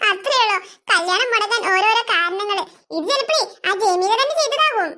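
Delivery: low-pitched gloating laugh into speech; amused, low and dismissive; scornful laughing. Acted. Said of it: "ഇങ്ങനെ ഒരു അവസ്ഥയിൽ ചിരിക്കാൻ പറ്റണത്".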